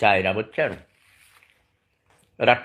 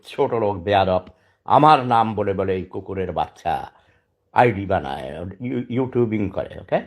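normal talking voice

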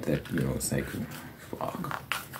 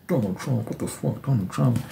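much higher outraged mock disbelief; mocking his younger self; 7 semitones higher than usual. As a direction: ham up a shocked teen. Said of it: "It's genuinely like".

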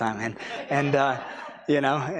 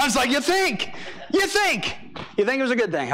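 crying laughing; 9 semitones higher than usual. Real, not acted. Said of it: "So now I'm crying".

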